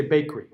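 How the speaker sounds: "bakery" said fast in two syllables, the middle schwa dropped; "bakery" clipped, fast and careless; 1 sloppy bakery. Shown as a demonstration. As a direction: rush through "bakery" and swallow the middle vowel. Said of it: "A lot of people would just say".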